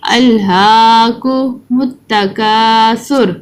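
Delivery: slow, drawn-out tajweed recitation; Quran recitation. Shown as a demonstration. Teacher reciting the surah for children to follow, slow chanted recitation. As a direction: chant each word slowly for children to repeat.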